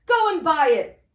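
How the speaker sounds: put-on excited old man leaning out; eager Scrooge.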